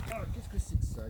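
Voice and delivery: high exclamation of surprise; amazed discovery. Acted. Hunter finding something in the carcass, amazed. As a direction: pitch up in wonder.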